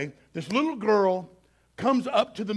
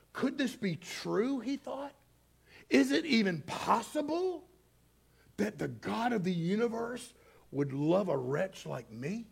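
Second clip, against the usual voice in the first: soft inner doubt; 7 dB quieter than usual. Retold or imitated. Man's inner doubting thought.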